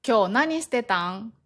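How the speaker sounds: casual Kansai-dialect question. Shown as a demonstration. Asking a friend about their day, Kansai dialect. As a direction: ask it in easy Kansai dialect. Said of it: "これ、関西弁です".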